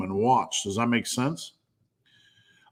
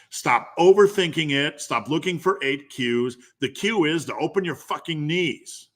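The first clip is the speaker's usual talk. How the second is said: emphatic, higher-pitched coaching rant; fired up; 3 semitones higher than usual. Real, not acted. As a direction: drive each command home, fired up. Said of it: "I got a little bit fired up".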